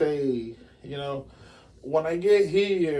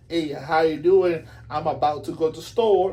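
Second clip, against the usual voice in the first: proper English. Shown as a demonstration. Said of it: "You can speak like".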